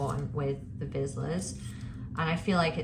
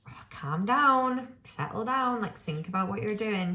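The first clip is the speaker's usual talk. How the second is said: calming a dog; 5 semitones higher than usual. Retold or imitated. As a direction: gently settle an overexcited dog. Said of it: "I'm like".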